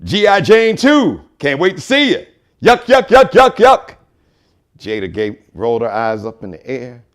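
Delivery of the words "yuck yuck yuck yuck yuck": high, loud goofy yuck yuck laugh; a silly chuckling yuck, pitched up; mock goofy laugh. The speaker mocking Chris with a goofy, pitched-up yuck laugh.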